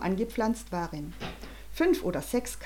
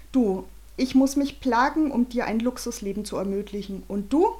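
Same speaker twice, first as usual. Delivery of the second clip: angry father; 2 semitones higher than usual. Acted. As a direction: rant at the boy, pitch rising. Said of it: "Bernhards Blick wurde zornig".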